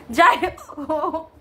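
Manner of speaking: speech broken by a hiccup; slow words caught by a hiccup; real hiccups. Real, not acted. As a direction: hiccup through the phrase. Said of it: "হিচকি উঠছে আমার".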